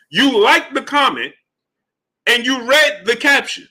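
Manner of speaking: can't believe he did that, say it high and sharp; incredulous. Real, not acted. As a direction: pitch jumps high in disbelief. Outraged that boxer liked comment.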